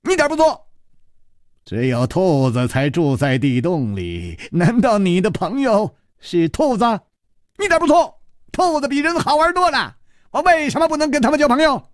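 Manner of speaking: high, giddy madman; feigned lunatic answering Chu Liuxiang, high and giddy; madman's voice. Acted. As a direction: play the childish lunatic, bouncing. Xue Baobao's put-on madman voice.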